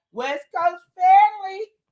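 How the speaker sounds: high, slow, drawn-out West Coast shout. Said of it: "why you have to say it like that".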